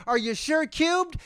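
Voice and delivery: high, slow, loud plea; hammed-up app begging. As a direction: drag out the needy question. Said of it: "they beg you to".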